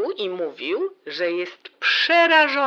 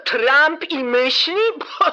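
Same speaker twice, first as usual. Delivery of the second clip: mocking laugh; 7 semitones higher, 5 dB louder, slower than usual. Mocking sister's Trump praise.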